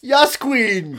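high, loud mock Brooklyn accent. Shown as a demonstration. Guest showing off his hipster act, Brooklyn accent. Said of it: "Listen to my Brooklyn accent".

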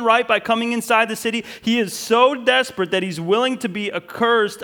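loud, high, driving sermon voice; preaching at full force. Acted. Pastor rousing the congregation, loud and high. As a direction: preach it out with rising fervor.

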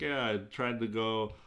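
put-on slow, dry Russian accent. Host quoting Buchnevich after the game, Russian accent. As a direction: lightly imitate a Russian player's dry accent. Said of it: "in his dry, uh, Russian accent".

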